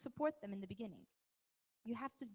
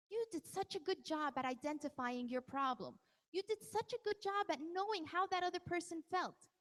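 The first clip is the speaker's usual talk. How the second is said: praising; 4 semitones higher than usual. Shown as a demonstration. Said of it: "praise them".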